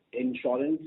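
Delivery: usual speaking voice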